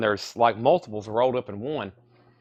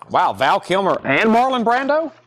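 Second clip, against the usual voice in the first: excited surprise; 8 semitones higher, 4 dB louder than usual. Real, not acted. Surprised at famous cast.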